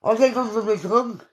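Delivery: giggling through slurred words; laughing. Real, not acted. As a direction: laugh while the words come out. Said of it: "sorry if I'm talking funny".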